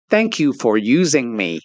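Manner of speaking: lightly mimicked American bin voice; a mildly irritating American-accented announcement; annoying American accent. Man imitates the talking bin's thanks, annoying American accent. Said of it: "a really annoying American accent".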